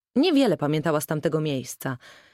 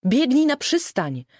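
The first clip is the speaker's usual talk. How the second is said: high, louder panicked cry; hysterical call; 7 semitones higher, 4 dB louder than usual. A narrator's reading. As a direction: shout it on the edge of hysteria. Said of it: "W głosie matki dziewczynka wyczuła ton histerii". (histeryczny, wysoki okrzyk)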